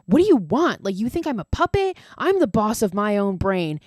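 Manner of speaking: imitating a paranoid stoner losing it; freaked-out yell. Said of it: "And he freaks out".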